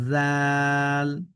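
জাল stretched slowly with a soft buzzing z; soft Arabic zal. Shown as a demonstration. Teacher showing soft জাল to learners, slow demo. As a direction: say জাল softly, long, voiced like th in this. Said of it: "নরম করে".

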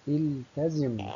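التزم drawn out very slowly, iltezim; slow teaching demo. Shown as a demonstration. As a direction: stretch التزم out for the pupils. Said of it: "لاحظ همزة الوصل".

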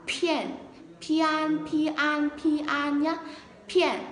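"片" with a puff of air, pitched high; aspirated p. Shown as a demonstration. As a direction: push breath out on each high "片". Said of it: "Từ pian là bật hơi nhá". (bật hơi rõ ở "片", giọng cao)

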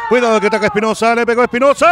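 sudden alarm at the shot; urgent fast call. Real, not acted. Sudden attack. (aviso urgente y rápido)

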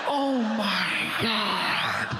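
slow drawn-out oh my God; stunned disbelief at the side skipping; shocked. Retold or imitated. Comic watching a grown man side skip, drawn-out shock.

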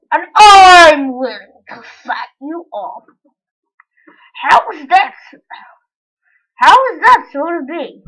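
a hint of a loud Spider-Man. Kid imitating Spider-Man, lightly loud swagger. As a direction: boast like a swaggering hero. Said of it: "I will be Andrew Garfield. Spider-Man".

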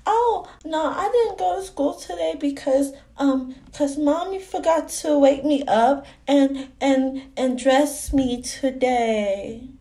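put-on childlike, chatty explaining voice; little girl. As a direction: talk like a small child telling tales.

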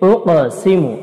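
উক সিমু with the q bounced before the s; qalqalah. Shown as a demonstration. Quran teacher joining the syllables, উক সিমু with qalqalah on q. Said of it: "এখানে কলকলাহ রয়েছে".

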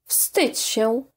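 plain reading voice

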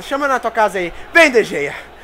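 ordinary talk

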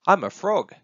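high, loud delighted announcement; proudly playing at being a frog; excited little one. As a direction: burst out in a high child's voice. Excited little one plays at frogs.

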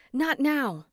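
high, sharp not now; brushing off. A narrator's reading. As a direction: wave her off hurriedly. Brushing her off while hurrying.

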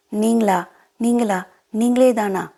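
a touch of astonished doubt on each repeat; disbelieving question. Acted. Prema unable to believe who is phoning, mildly disbelieving.

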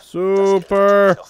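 excited anime fan. Retold or imitated. Echoes the game's Super.

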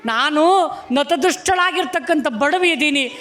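understated high-pitched plea; mild pleading. Acted. Poor woman tells the guru she has nothing to give, pleading mildly.

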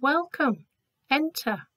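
welcoming voice. Acted. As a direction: welcome him in through the gates. Gates open, voice welcomes.

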